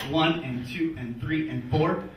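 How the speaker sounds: slow, evenly spaced exercise count; steady count. Acted. Comic counting the body's jumping jacks, slow steady count. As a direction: count out each beat slowly and evenly. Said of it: "It's like double the speed".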